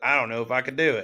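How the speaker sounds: put-on Southern US accent. Quoting a hesitant remark from before: Southern accent. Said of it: "Back to the Southern accent again".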